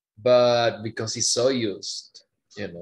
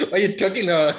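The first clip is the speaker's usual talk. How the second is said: amused disbelief; 7 semitones higher, 7 dB louder, much faster than usual. Real, not acted.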